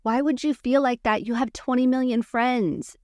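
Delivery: insistent mock cheerleading; imitating overeager reassurer. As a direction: talk them out of it with pushy praise. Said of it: "people wanna do is go".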